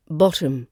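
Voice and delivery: "bottom" ending in an unstressed -təm; schwa in bottom. Shown as a demonstration. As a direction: reduce the final O of "bottom" to uh. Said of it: "the final O, is the schwa".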